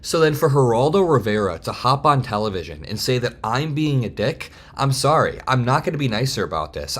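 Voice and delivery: really indignant, emphatic and defiant; worked up. Real, not acted. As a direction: push back, getting a little heated. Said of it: "getting a little bit worked up".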